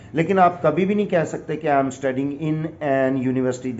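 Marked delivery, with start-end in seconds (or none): 1.7-3.8 slow, deliberate wrong example; wrong version, slow. Shown as a demonstration. Teacher slowly reads the wrong example. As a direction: drag out the wrong sentence for the class. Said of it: "عجیب سا فکرہ آپ کو لگنے لگا".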